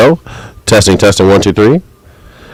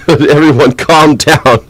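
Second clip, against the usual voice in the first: laughing; 5 semitones higher, slower than usual. Real, not acted. Laughing while calming chat.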